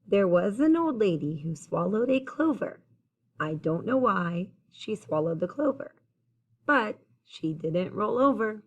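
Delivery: clear, lilting rhymed storytelling; picture-book read-aloud. A narrator's reading. Reader telling children about the old lady, lilting storytime read-aloud. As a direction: read the rhyme out to young listeners.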